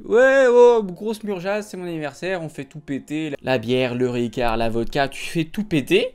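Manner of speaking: hyped-up imitation of a partygoer; party animal announcing his birthday binge; drunk birthday guy. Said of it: "il y a un mec qui l'a dit".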